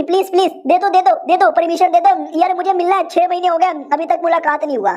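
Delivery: high-pitched pleading, not truly shouted; acted pleading cry. Wife begging to be let in to see her father, mock pleading cry. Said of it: "तो चिल्लाने लगती".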